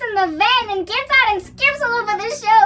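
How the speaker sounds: excited telling. Real, not acted. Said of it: "excited retelling".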